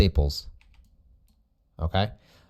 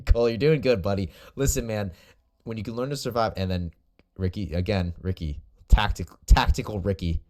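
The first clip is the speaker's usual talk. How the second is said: calling from far away. Real, not acted. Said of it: "I'm yelling over here".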